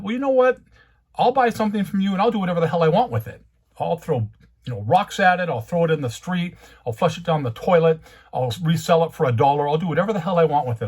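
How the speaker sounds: heated and fast, words tumbling out; real angry rant. Real, not acted. Collector venting at the shop owner, fast heated anger. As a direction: let the anger boil over, fast and pushing.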